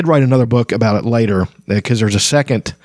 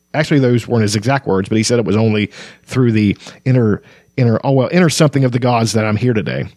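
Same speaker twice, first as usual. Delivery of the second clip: story narration. A narrator's reading. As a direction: read the scene like an audiobook. Continues reading the novel.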